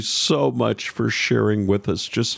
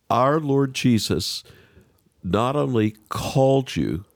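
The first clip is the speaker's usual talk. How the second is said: moved, slow and sincere; 5 semitones higher than usual. Real, not acted. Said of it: "you're gonna make me emotional here".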